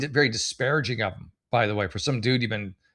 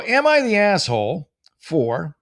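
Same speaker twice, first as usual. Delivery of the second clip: announcer voice; 5 semitones higher, 5 dB louder, slower than usual. Acted. Announcing the subreddit title.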